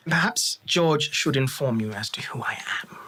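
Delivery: cool unvoiced whisper; hint at menace in a hush; whispered elf. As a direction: elf lord putting the fighter in his place, whispering.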